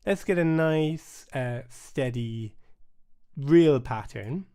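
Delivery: slow and steady, each word even; steady slowed count-in; nice and steady. Real, not acted. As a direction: set a calm steady pulse. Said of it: "nice, steady".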